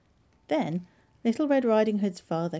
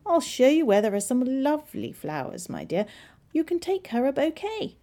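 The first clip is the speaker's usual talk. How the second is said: high, persuasive storybook wolf; pitched-up, coaxing wolf voice; crafty wolf; 7 semitones higher, 4 dB louder than usual. A narrator's reading. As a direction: tempt her as a sly wolf. Wolf tempts girl with flowers.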